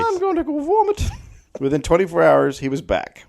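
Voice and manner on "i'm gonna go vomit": put-on squeaky drunk. Drunk Malloy.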